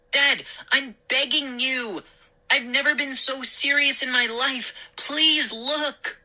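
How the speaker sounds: high, earnest begging; pleading. Acted. Boy begging father to look out, pleading. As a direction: implore him, pitch held high. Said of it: "I pleaded".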